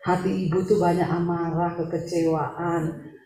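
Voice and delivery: low, soft and measured, easing off toward the end; careful, gentle disclosure. Retold or imitated. Preacher to a bitter, troubled woman, carefully and softly.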